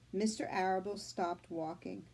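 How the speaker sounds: put-on reading aloud to children; teacher reading a chapter book to her class; story reading. A narrator's reading. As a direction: tell the story to the class, clear and gentle.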